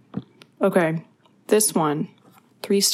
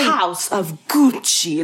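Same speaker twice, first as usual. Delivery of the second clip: lightly mocked Italian accent sounding German-Russian; slow hint of a muddled Italian-Russian accent; a singer's Italian accent; slower than usual. Showing cohost the trailer's line, mock Italian accent. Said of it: "That's, like, German and Russian".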